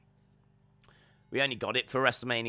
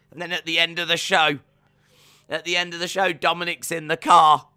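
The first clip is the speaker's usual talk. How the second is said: excited storytelling; 4 semitones higher, 7 dB louder than usual. Real, not acted. Excited telling of show's ending.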